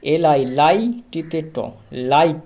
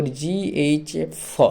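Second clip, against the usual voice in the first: slow spelling; 4 dB quieter, much slower than usual. Shown as a demonstration. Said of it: "তাহলে এ না।".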